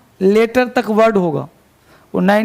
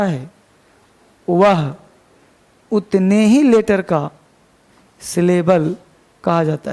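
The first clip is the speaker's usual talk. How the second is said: dictation. Shown as a demonstration. Dictates the rule to write down. (धीमा dictation)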